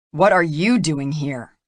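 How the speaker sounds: sharp, demanding question; jealous man challenging his ex-partner. Acted. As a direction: confront the rival head-on. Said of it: "he demanded of Bo".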